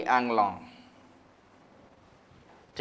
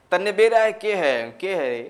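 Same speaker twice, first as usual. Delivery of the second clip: Haryanvi tone; 3 semitones higher than usual. Retold or imitated. Teacher imitating a Haryana local's blunt Haryanvi tone. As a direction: mimic the blunt Haryanvi tone that sounds angry but isn't. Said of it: "tone ही ऐसा है".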